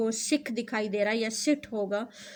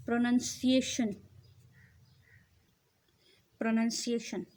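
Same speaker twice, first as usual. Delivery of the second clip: slow model word; much slower than usual. Shown as a demonstration. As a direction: stretch out Pronunciation syllable by syllable. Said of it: "drawn-out model word".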